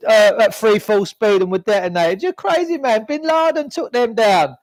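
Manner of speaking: high, sneering mock voice of the sceptics; mocking the doubters. Mimicking people who dismiss his theories, high sarcastic voice. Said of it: "they go".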